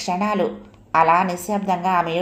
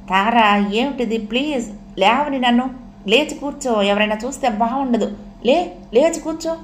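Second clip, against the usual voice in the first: higher-pitched, pressing plea; raised, insistent but restrained urging; urgent pleading; 4 semitones higher than usual. Acted. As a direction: coax with mild urgency. Man urges weeping woman to rise.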